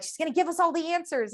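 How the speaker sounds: high, eager mock listener voice; mock excited. Listener eager for answers, mock excited. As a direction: play the hopeful listener expecting easy answers. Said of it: "you're super excited and you're like".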